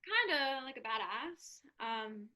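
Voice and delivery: barely above a murmur, stunned; shaken and quiet. Acted. Janie asking herself how she feels after hanging up, hushed.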